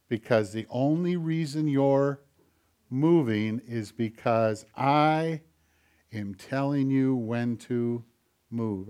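a hint of a stern master; quiet stern rebuke. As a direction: puppeteer quietly putting the hand in its place. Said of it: "I look at my hand and I go".

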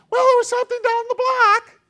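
put-on squeaky child voice answering dad; little kid voice. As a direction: play a toddler making an innocent excuse. Toddler answers parent.

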